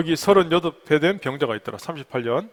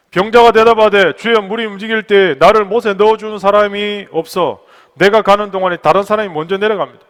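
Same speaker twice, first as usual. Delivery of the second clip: raised, declaiming voice; forceful scripture reading; 4 semitones higher, 10 dB louder than usual. Real, not acted. Preacher reading the sick man's answer, forceful declamation. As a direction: declaim the verse to the room.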